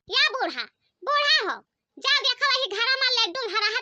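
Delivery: high call across the house. Acted. Calling grandpa to fetch laddus.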